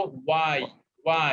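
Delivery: why said as "wai", no h sound; teacher modelling why without h; silent h in why. Shown as a demonstration. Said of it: "এইচ বলবো না".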